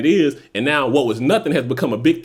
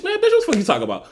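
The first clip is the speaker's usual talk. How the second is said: mock trash talk; 8 semitones higher, faster than usual. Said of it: "somebody who be popping shit".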